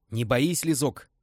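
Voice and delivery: hearty, rallying cry; inspired. Acted. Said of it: "вдохновенно выдал полковник". (полковник вдохновенно подбадривает Лизу)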